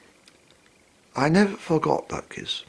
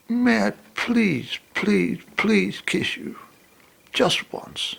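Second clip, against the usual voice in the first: slow, drawn-out begging; hammed-up slow plea for a kiss; pleading; 8 semitones higher, slower than usual. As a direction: stretch each please like a begging puppy.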